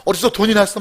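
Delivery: lightly acted delighted son; excited. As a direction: imitate an excited kid thanking mom. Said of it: "철없는 아들은 그저 신나서".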